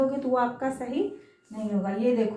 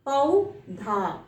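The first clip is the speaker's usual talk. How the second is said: पौधा stretched slowly, clear औ vowel; drawn-out model word; much slower than usual. Shown as a demonstration. Teacher to young pupils, stretching पौधा slowly. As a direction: draw out पौधा so the औ sound rings. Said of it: "पौधा बोलते हैं ना".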